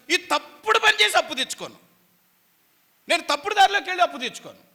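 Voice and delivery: firm vow. Acted. Preacher voices believer refusing crooked money, firmly loud. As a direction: swear it out loud with conviction.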